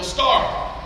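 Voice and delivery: ordinary delivery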